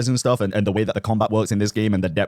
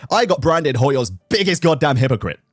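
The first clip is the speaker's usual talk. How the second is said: angry rant; 3 semitones higher than usual. Real, not acted. Ranting about hypocrisy, shouting.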